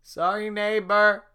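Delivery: high, loud, slow cookie voice; squeaky apology. Acted. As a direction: shout a silly apology. Mock apology to neighbor.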